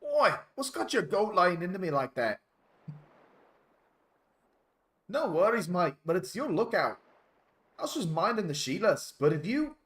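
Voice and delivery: hammed-up Australian, pitched high; insane Australian. Player voicing the dolphin's complaint, over-the-top Australian. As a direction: play a rowdy, aggrieved Aussie. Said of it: "insane Australian".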